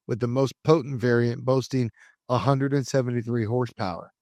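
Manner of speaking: measured documentary-style read; scripted narration. Acted. Host telling listeners the Supra story, scripted narration. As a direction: narrate it like a car history feature. Reads scripted car history aloud.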